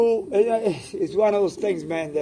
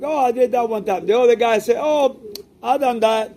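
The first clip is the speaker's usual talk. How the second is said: lightly voiced, higher pitched boast; mock bragging fancier; 4 semitones higher than usual. Mocking a fancier who claims without evidence, higher mock brag. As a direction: toss it off like a show-off who can't prove it.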